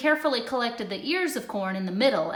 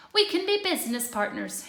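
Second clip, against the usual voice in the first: higher, eager sales pitch; sly Hare; 8 semitones higher than usual. A narrator's reading. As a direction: sell the idea with a grin.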